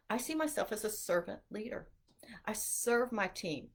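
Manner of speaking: soft imitating whisper. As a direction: breathe the quote out in a hushed whisper. Quoting an interviewee's humble answer.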